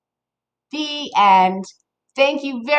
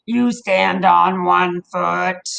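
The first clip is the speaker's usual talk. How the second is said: slow, lower grumpy toad; 3 semitones lower, slower than usual. Acted. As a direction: drawl it like a grumpy old toad. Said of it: "says Grumpy Toad".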